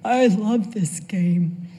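whispered, slow grandson's delight; excited whisper. Retold or imitated. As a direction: whisper it slowly like a thrilled kid. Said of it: "my nine-year-old grandson says".

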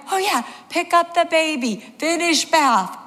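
high-pitched, mock-flustered echo; acting out a frazzled mother remembering what to do; comic high voice, repeating orders to herself; dazed realisation. Panicked mother takes in the order.

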